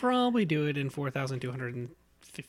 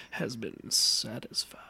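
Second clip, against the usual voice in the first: creepy whisper; 5 semitones lower, slower than usual. Shown as a demonstration. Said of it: "I can do the".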